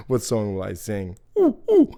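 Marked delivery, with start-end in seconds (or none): 1.4-1.9 high thrilled ooh; excited squeal. Acted. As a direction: squeal with delight. Wolf excited.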